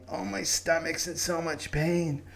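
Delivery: a hint of a self-pitying patient groaning to his doctor; whiny patient. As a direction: drag out the aches like a mock sufferer. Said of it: "and he goes".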